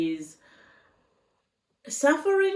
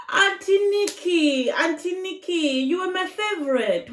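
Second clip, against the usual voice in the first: higher-pitched plaintive appeal to an idol; dismayed appeal; 6 semitones higher than usual. Pretend. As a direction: appeal to a favorite auntie, let down.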